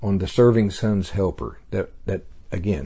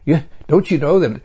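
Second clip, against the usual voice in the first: loving grandfather; 11 semitones higher than usual. Acted. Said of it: "He'd say".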